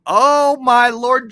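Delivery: real thrilled surprise; excited shock. Real, not acted. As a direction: blurt it out, thrilled and stunned. Surprise at big hype train.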